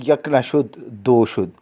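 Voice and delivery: low, weary groan of words. Acted. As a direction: mutter it as a mild moan. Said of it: "कराहते हुए".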